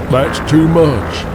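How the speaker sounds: a touch of a firm refusal, slow; pilot voice. Acted.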